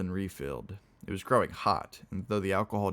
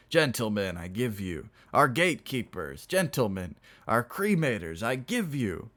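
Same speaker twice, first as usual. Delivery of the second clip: slightly raised voice proposing toasts; piping toast; 3 semitones higher than usual. Acted. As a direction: pipe up with a toast. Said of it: "a voice piped from under".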